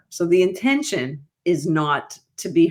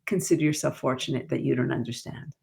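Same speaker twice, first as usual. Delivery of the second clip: quiet retort; 4 semitones lower, 5 dB quieter than usual. Shown as a demonstration. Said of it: "you say".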